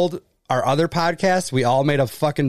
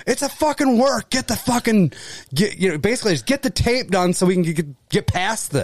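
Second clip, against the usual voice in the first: higher-pitched impatient boss scolding; irritated Vince McMahon; 5 semitones higher than usual. Retold or imitated. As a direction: push him to just finish the tape. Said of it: "And Vince is like".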